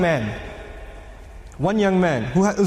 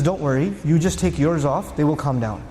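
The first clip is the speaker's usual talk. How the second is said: reassuring; 5 semitones lower than usual. Acted. Mother of believers reassures him.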